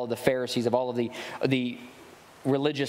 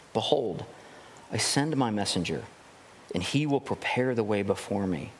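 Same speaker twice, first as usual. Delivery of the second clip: scripture reading. Acted. Preacher reading Malachi to the congregation, solemn reading voice. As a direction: read the verses with measured gravity.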